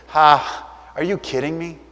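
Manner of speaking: mock disbelief with a scornful "ha"; scoffing laugh. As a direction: imitate someone laughing off a claim. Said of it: "that they laughed at him".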